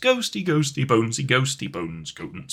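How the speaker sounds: spooky sing-song bones chant; skeleton noises. Pretend. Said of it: "skeleton noises".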